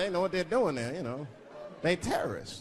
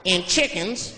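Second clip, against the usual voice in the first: Southern waiter; 3 semitones higher than usual. Retold or imitated. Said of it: "He looked at me like I was crazy".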